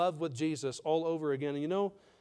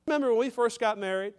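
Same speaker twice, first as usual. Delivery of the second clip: a wife's pleading voice, pitched higher; tearful wife; 6 semitones higher, 4 dB louder than usual. Retold or imitated. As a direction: plead like a wife who misses the old closeness. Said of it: "She said".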